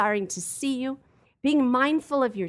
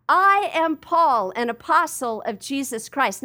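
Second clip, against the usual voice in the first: confident declaration; 2 semitones higher, 5 dB louder than usual. Retold or imitated. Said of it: "but he says".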